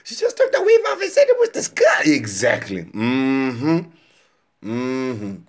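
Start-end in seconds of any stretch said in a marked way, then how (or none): 0.0-2.0 imitated cheering fans. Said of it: "Y'all were just like".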